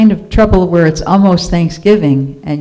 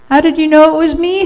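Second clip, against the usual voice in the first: very high, quick howl; 11 semitones higher, faster than usual. A narrator's reading. Turkey, found out by Rooster, howls. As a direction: howl it in comic dismay. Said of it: "howled Turkey".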